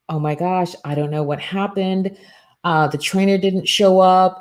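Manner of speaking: a hint of worried rush; mock panic. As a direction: imitate a flustered assistant, mildly hammed-up. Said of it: "freaking out".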